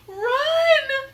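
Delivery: high, loud call to flee; urgent cry. Acted. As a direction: yell at him to run. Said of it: "said Annie".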